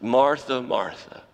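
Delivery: gentle, falling, tender call; loving. Shown as a demonstration. How Jesus did say it: tender, falling, loving. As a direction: call her name with love. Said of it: "how you know that the Lord loves her".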